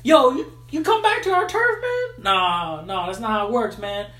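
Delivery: guard your turf like a street tough; hammed-up territorial dude; mock tough monkey. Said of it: "the other monkey was like".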